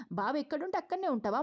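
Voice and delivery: mock her words incredulously; incredulous question. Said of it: "ఏంటి దీప".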